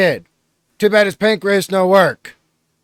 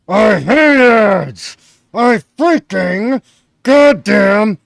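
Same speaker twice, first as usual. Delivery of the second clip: building frustration; 2 semitones higher, 4 dB louder, slower than usual. Real, not acted.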